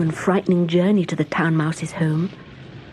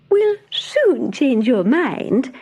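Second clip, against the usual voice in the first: cheerfully; 6 semitones higher, 3 dB louder, much slower than usual. Acted. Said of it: "replied her cousin cheerfully".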